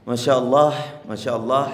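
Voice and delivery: Allah given a light h ending; demonstrating Allah. Shown as a demonstration. Preacher demonstrating Allah to listeners, careful. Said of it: "menyebutkan Allah itu pakai ha".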